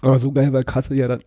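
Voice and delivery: swallowed beer the wrong way; talking through a choke on a sip; choking on beer. Real, not acted. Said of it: "verschluck mich gerade an dem Bier".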